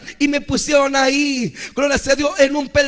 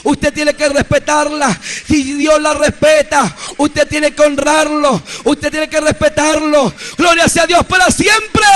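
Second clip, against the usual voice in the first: louder preached warning to the church; preaching exhortation; 3 dB louder than usual. Acted. Preacher urging the church to honour authority, loud preaching. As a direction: urge the listeners, rising to a loud close.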